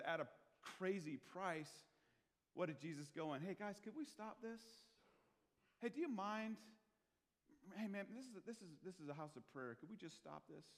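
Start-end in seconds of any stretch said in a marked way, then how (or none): 3.4-10.6 meek, fading to soft pleading; shy, polite request that trails off quiet; timid polite request. Pretend. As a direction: ask nicely, almost apologetic. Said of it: "Is that the way Jesus responded?".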